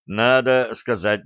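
ordinary delivery

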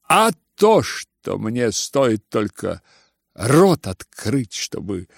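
yelling, breaking off. Acted. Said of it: "завопил вдруг Ганя и не договорил".

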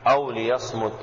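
"ليصمت" said li-yasmut, with u after the mim; damma on the mim. Shown as a demonstration. Teacher correcting the reader on the vowel, "ليصمت" as li-yasmut. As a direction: read "ليصمت" with a short u on the م. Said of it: "بضم الميم".

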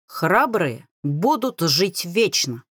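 proud, slow motto. Acted. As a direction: say it slowly with pride. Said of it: "гордо говорит Брен низким бархатным голосом". (гордо и медленно)

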